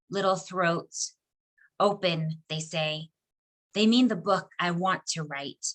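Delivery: understated poem recital, measured phrases with pauses; poetry reading. Acted. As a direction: recite your poem line by line, letting pauses fall. Reads second poem aloud.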